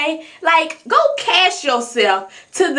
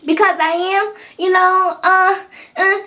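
halting, slightly higher put-on reply; mock hesitant proper answer; 3 semitones higher than usual. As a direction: stall with drawn-out ums, pretending to explain. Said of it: "I'm not gonna talk like that".

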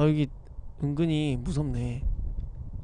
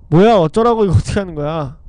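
frustrated outburst; 11 dB louder than usual. Real, not acted. Stuck on the safe puzzle.

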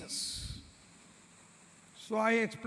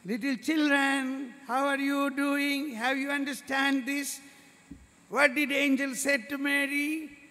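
catechism teacher voice; 5 semitones higher than usual. Acted. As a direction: talk up to little kids like a kind Sunday school teacher. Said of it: "the teacher is asking".

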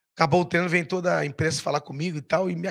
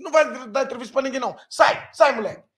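raised, higher voice shooing people away; retold protective command, pitched up; imitated brusque order; 5 semitones higher, 4 dB louder than usual. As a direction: order them out, acting it for a story. Acts out official shooing press away.

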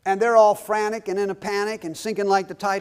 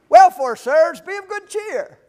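much higher and louder hammed-up Paul; cheerful Paul; 11 semitones higher, 10 dB louder than usual. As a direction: lift it up high like a beaming Paul. Paul retold again, bigger.

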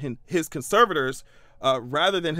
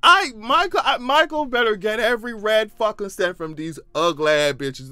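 loud, high insistence; emphatic demand; 4 semitones higher, 4 dB louder than usual. Real, not acted. Vlogger backing Michael, loud high demand. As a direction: demand it loudly.

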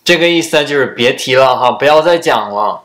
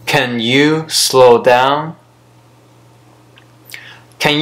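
slow whisper; much slower than usual. Shown as a demonstration. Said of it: "teacher demos asking to slow down".

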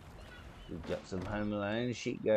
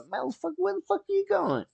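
much higher, fast, indignant shouted curse; mock outraged yell; faster than usual. Fan yelling at fleeing warriors, indignant high yell. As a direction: yell after the deserters like you can't believe it. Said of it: "I'd be like".

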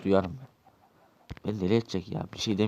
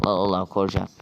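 angry yell; 6 dB louder than usual. Acted. Angry confrontation in the shop.

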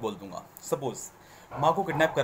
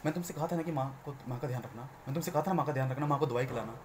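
gentle scolding; 2 semitones lower, 6 dB quieter than usual. Shown as a demonstration. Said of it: "मैं डांट रहा हूँ".

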